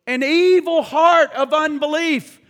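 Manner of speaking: preached aloud. Acted. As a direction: proclaim it loudly, hitting evil. Scripture repeated loudly.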